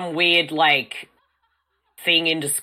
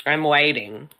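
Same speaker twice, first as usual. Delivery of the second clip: impatient; slower than usual. Pretend. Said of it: "This is my non-existent watch".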